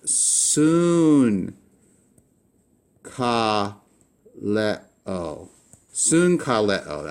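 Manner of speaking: sunkaleo said slowly as SOON-kah-leh-o, with n in place of the g; slow teacher model of sunkaleo, soon-kah-leh-o; Greek pronunciation. Shown as a demonstration. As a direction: say sunkaleo with an n before the k. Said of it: "You would pronounce this as".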